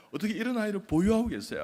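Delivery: high, loud flustered exclamation. Retold or imitated. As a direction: blurt out praise in a fluster. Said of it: "그만큼 제가 당황했다는".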